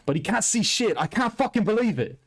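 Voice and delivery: high-pitched quote with an Australian tinge; accidental Australian accent. Retold or imitated. Host quoting the fighter who can't see, in a high Australian accent. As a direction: raise the pitch, lightly imitating with an Australian accent. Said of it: "I just did an Australian accent there".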